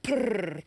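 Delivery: low rolled purr; imitated cat purr. Contestant answers with the second sound, low purring. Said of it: "it's the second sound".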